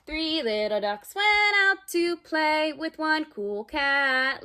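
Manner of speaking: lively storybook read-aloud for little ones; reading to children. Acted. Teacher reading a picture book to kids at home, lively. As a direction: read it like circle time, bright and playful.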